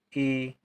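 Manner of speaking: ई held as a long ee; long vowel. Shown as a demonstration. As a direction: draw out the ee of ई. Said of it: "ई देर तक बोली जा रही है".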